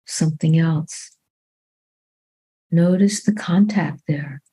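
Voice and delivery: calm, unhurried meditation guidance with long pauses; measured body-scan voice, phrase by phrase; guided meditation. Real, not acted. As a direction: guide them gently into the body, leaving long silences.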